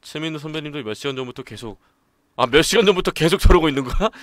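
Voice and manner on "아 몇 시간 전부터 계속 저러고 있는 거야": louder, amazed question; stunned at how long it's been; surprised. Real, not acted. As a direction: react in disbelief. Reacts in disbelief.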